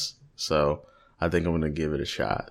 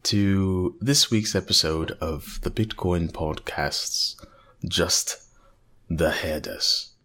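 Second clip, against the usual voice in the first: put-on a faint British library-narrator accent, like a wildlife documentary; mock British narrator accent. Host opening the podcast episode in a mild put-on British narrator accent. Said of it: "I can't do that accent".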